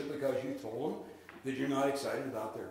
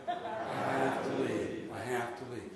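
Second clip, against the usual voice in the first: soulful, a little sad; slower than usual. Shown as a demonstration. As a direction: let it sound regretful, not cold. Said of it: "sound a little soulful, a little bit sad".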